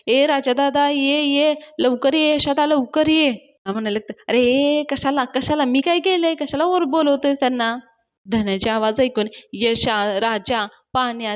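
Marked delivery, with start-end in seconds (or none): 0.1-3.3 higher-pitched retold call for help; mock calling out. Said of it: "धन्या पटकन ओरडायला लागतो". 4.3-7.8 higher-pitched retold objection; flustered protest. Retold flustered protest at being exposed.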